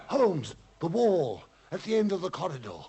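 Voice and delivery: excited. Acted. Excited discovery during alarm.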